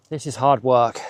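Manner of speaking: panting while climbing uphill; breathless from the climb; out of breath. Real, not acted. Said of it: "if I sound out of breath".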